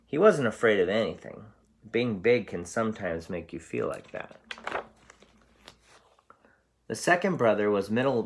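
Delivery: teacher reading a picture book aloud; story narration. A narrator's reading. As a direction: read it out to a class, bright and animated. Teacher reads story to class.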